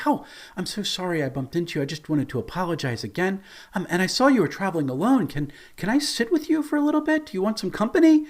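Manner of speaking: high, quick, eager-to-please apology; all apologetic. Acted. Pickpocket approaching the lone young elf, high and apologetic. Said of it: "She comes up all apologetic".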